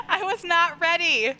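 giggling apology; sheepish laughing. Real, not acted. Streamer apologizes to chat for screaming, laughing. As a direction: laugh it off, embarrassed. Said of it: "I'm so sorry".

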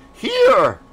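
loud, high, irritated call; one sharp, angry holler; angry shout. A narrator's reading. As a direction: shout it back angrily. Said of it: "answered Sir Geoffrey angrily".

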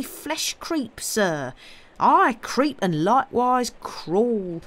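high, loud swooping country voice; agitated rustic servant, pitch rolling up and down; frightened rustic servant. A narrator's reading. Servant telling master of moaning that makes flesh creep, frightened.

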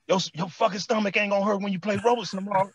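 lightly voiced coach telling off a player; imitating scolding coach.

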